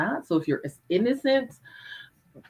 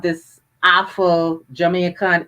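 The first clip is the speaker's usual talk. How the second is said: Afro-Jamaican accent; 5 dB louder, slower than usual. Shown as a demonstration. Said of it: "it sounds like Scottish accent".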